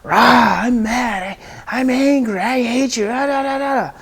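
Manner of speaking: loud mock-angry child outburst; acting out a child's anger. Shown as a demonstration. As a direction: play a mad kid venting. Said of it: "we go to feelings".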